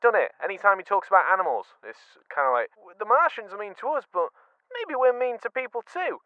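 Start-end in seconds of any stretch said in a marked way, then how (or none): 3.0-6.2 high, preachy English-accented imitation of the narrator; imitated English narrator accent. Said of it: "in that exact accent".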